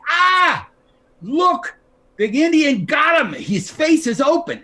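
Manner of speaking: high excited shout of moviegoers; loud, high mock cheer; imagined crowd shout. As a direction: yell it like the audience gasping. Crowd reaction imagined in story.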